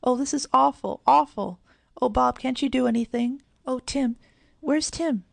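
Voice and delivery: high, loud, panicked cries; desperate, calling for help; frantic. A narrator's reading. Girl frantic over her drowning dog, high panicked wail. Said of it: "nearly drove his mistress frantic".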